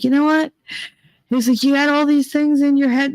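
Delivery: high, pushy mock rant; hammed-up tough-love rant; imitating Nick's rant. Quoting Nick's rant at people.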